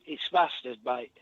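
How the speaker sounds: mock London "mustard", flat 'a' in the first syllable; matey London slang delivery on "mustard"; London accent. Shown as a demonstration. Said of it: "It's more of a London thing".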